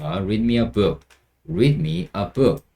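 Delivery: very slow, every word spaced out; slow model sentence. Shown as a demonstration. Teacher modelling a phrase, very slow. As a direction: say it slowly for learners. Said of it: "이렇게 하시면 됩니다".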